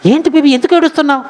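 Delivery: high-pitched doting husband imitation; loving concern. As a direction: coax her as your baby. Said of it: "ఎంత ప్రేమగా మాట్లాడుతున్నాడండి". (ప్రేమగా లాలించే భర్త అనుకరణ)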